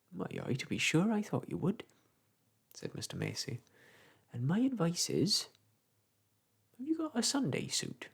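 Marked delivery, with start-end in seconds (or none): 0.1-1.8 chatty old countryman, lightly voiced; a touch of a gossiping old clerk; old village clerk. Macey's voice again. 4.3-8.1 chatty old countryman, lightly voiced; a touch of a gossiping old clerk; old village clerk. Macey's voice again.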